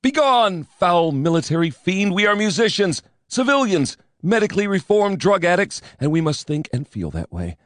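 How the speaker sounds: defiant outburst. A narrator's reading. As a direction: drive the admiral away. Defiant speech to the admiral.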